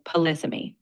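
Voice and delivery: polysemy with the beat on its second syllable; stress on second syllable. Shown as a demonstration. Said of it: "The emphasis is on the second syllable".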